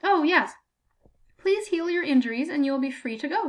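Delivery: put-on high, bright-eyed old woman's glee; pleased as punch about an injury; a hammed-up cheery examiner; delighted old grader. A narrator's reading.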